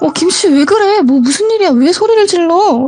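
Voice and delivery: high-pitched, alarmed calling out.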